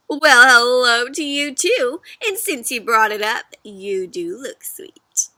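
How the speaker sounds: slow, sly, hungry; sly fox. Acted. Fox eyeing the cookie sweetly.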